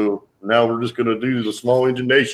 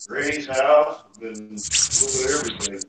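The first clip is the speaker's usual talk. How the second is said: distant phone mic; sounding like in a tunnel; far from the mic; 4 dB quieter than usual. Real, not acted. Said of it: "you're sound like you're in a tunnel".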